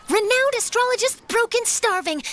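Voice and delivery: dramatic reporter drafting a headline; headline proclamation. Acted. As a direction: proclaim it like front-page news. Composes a headline aloud.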